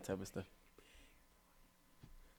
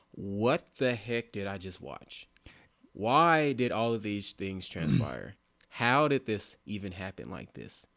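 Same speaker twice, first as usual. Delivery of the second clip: slow, drawn-out disbelief; acted shock; 5 dB louder, slower than usual. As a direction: imitate a stunned moviegoer, stretching the question words. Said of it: "your mouth will be open and in shock".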